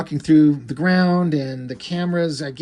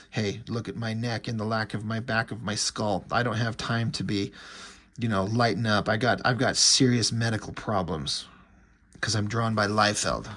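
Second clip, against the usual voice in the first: Shaft; 4 semitones lower, 4 dB quieter than usual. Acted. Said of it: "And Shaft's like".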